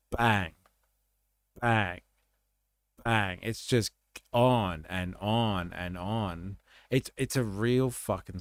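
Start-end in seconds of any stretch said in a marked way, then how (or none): 0.1-3.4 spaced-out spoken bangs; imitated gunshots. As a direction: mimic repeated gunfire with separate falling bangs. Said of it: "in the background, it's just like".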